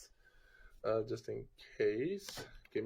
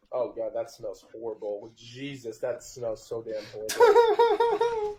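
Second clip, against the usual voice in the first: disgusted; 6 dB louder, slower than usual. Real, not acted. Smelling the drink, disgusted.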